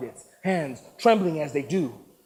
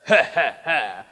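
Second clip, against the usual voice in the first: villain laugh; 2 semitones lower, 6 dB louder than usual. Acted. Warlord laughs.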